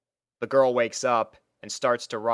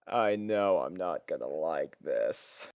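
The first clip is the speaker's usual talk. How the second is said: resigned dread; 6 semitones lower, 5 dB quieter, slower than usual. A narrator's reading. Resigned aside.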